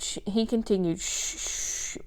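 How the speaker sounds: soft voiceless shushing; hush. Acted. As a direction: keep shushing quietly. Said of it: "Billy murmured".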